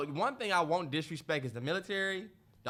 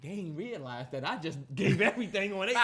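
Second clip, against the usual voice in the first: laughing; 3 dB quieter than usual. Real, not acted. Laughing while telling.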